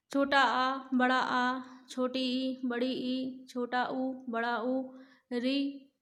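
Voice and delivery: each vowel sound said separately, with a pause after it; reciting vowels. Shown as a demonstration. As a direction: recite the vowel list one by one for pupils. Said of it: "स्वर तेरह होते हैं".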